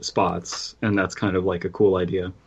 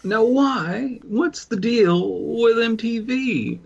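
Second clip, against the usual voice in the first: mock conspiracy ranter; 13 semitones higher than usual. Mock conspiracy voice ranting to the podcast crew. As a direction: play a hammed-up conspiracy theorist.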